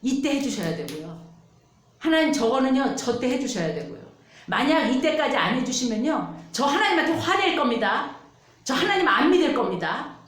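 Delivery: demanding prayer. Retold or imitated. Believer prays, demanding God act on time, insistent. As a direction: lay down terms to God, pushing harder. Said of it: "그렇게 기도해요".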